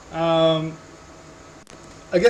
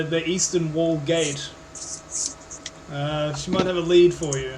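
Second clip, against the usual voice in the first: lightly put-on evolving accent, halting; lightly voiced barkeep searching through directions; 2 semitones higher than usual. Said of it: "It's evolving".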